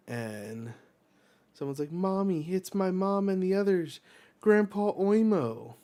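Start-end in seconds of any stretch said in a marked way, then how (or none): 1.9-5.8 put-on excited child. Child spots family, voiced.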